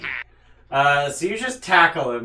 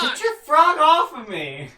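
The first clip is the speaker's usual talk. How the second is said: high, loud panicked yell; shouting; 12 semitones higher, 7 dB louder than usual. Acted. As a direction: yell in disgust. NPC licked by frog.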